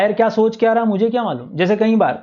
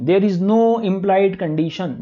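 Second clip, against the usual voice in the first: very slow, calm repeat with "no" marked; a teacher repeating the rule slowly for note-taking; slower dictation; much slower than usual. Shown as a demonstration. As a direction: repeat it slowly so they can write. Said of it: "बोलो".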